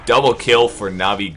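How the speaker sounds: loud, high hype call; excited play-by-play. Real, not acted. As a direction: yell the double kill. Team fight double kill.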